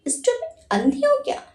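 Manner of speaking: high, sharp scolding outburst; furious snap. A narrator's reading. Wife lashing out at the maid, high angry snap. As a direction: lash out at the maid. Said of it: "Vimla पर बरस पड़ी".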